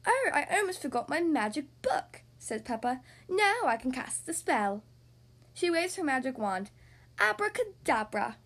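put-on lively read-aloud for little kids; storybook narration. A narrator's reading. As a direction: read it like bedtime story time. Reads picture book aloud.

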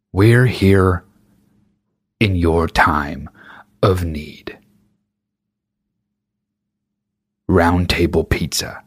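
slow, breathy ad parody fading to a whisper; mock sentimental ad. Mocking covid ads, slow mock-sentimental whispered ad voice. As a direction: drag out the tearful slogan. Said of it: "serious music in the back".

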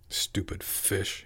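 soft, slow whispered grumble; a sullen boy grumbling to himself; muttered. Acted. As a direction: mutter it under your breath, slowly. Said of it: "he muttered".

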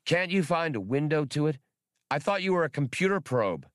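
high, impatient squeaky voice; exasperated squeak. Acted. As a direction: press him, squeaking with impatience. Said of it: "Exasperated, Spray pursued".

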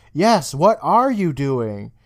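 slow, drawn-out suspicious question; retold teacher catching kids in the lab, slow and suspicious; stern teacher.

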